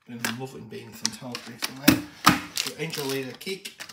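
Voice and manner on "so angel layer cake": a hint of a Scottish accent on the cake name; slip into Scottish. Real, not acted. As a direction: lightly slide into Scottish, then drop it. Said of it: "I don't know why I went Scottish then".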